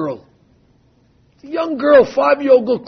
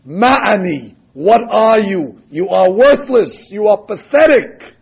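slow, louder scolding verdict; stern rebuke; 4 dB louder, slower than usual. Acted. The Mishnah condemning the selfish man, stern and slow. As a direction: pass judgment on him, hard and slow.

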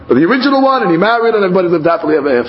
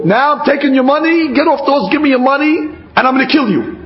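higher-pitched, insistent mock threat; robber's threat; 6 semitones higher, faster than usual. Robber ordering the traveler off his horse, raised-pitch threat. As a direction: act out demanding the money, pitched up.

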